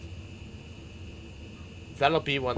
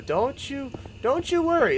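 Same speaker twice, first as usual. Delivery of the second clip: high, loud playful "don't you worry"; sing-song reassurance; 12 semitones higher, 3 dB louder than usual. Real, not acted. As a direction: coo it teasingly, pitched way up. Teasing reassurance to viewers.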